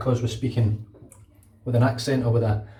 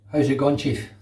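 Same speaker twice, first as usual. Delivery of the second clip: Glaswegian greeting, said as one phrase; broad Glaswegian. Shown as a demonstration. Teaching viewers the lesson of the day, in Glaswegian. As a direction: give it in Glasgow patter. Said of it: "lesson of the day".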